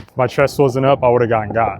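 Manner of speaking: grunting with effort; pushed out through physical strain. Real, not acted. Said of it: "I apologize for my grunting".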